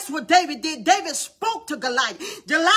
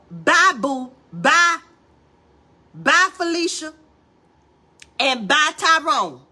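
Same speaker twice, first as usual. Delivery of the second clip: dismissive; 4 dB louder, much slower than usual. Real, not acted. Dismissive goodbyes in sermon.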